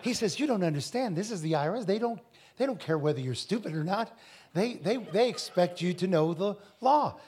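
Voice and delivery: imitated Indian accent. Indian fellow warns preacher about the IRS, light Indian accent. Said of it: "with that accent, he's like".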